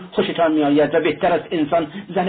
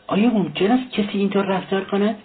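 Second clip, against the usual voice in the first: higher, indignant outburst; angry; 7 semitones higher than usual. A narrator's reading. Razumikhin indignant at Luzhin's behaviour, raised pitch. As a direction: let the outrage lift the question. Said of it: "رازومیخین که عصبانی شده بود گفت".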